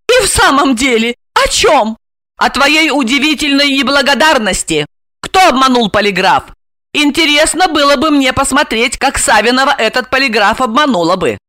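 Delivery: high, sarcastic woman's voice; reproachful heroine. Acted. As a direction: reproach him for ingratitude. Asya reproaches his ingratitude. (язвительный упрёк высоким голосом)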